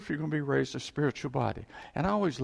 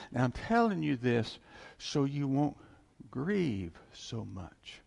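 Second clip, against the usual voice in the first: gentle comfort; slower than usual. Retold or imitated. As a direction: soothe a grieving crowd, slowly. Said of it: "And he says, that".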